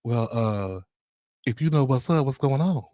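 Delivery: quiet suggestive hint to her husband; coy, suggestive hint. Retold or imitated. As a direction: drop it softly with a dramatic pause. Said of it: "there's a little dramatic pause".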